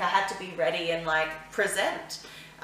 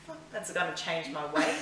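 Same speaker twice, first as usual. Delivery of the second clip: laughing; 4 dB quieter than usual. Pretend. Joking quote, laughing.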